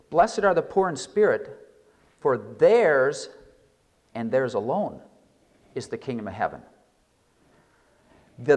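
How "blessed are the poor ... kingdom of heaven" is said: "theirs" hit hard, then "and theirs alone" set apart; emphatic reading. Shown as a demonstration. Preacher showing how the Greek emphasis reads, stressing "theirs". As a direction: lean on "theirs" and pause after it. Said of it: "would have one to read it this way".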